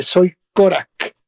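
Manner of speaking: slow, proud retold introduction; mildly proud self-quote. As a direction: announce your name with pride, drawn out. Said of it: "orgullosamente le dije".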